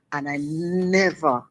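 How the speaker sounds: never drawn out slow and weighty; stress on never. Real, not acted. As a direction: lean hard on never, slowly. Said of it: "underline the word".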